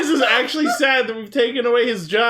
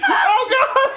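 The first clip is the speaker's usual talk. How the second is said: spitting out a drink; 7 semitones higher than usual. Real, not acted. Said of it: "we just spit up water on the floor".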